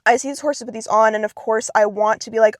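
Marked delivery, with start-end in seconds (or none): 0.0-1.1 slight lisp with aligners in; talking around a retainer. Real, not acted. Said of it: "I have a bit of a lisp right now".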